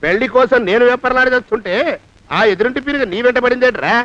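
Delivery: angry scolding. Acted. Master scolding servant.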